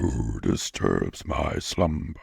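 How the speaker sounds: deep, slow booming cave voice; grinding stone statue. Retold or imitated. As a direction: rumble it like a giant stone head.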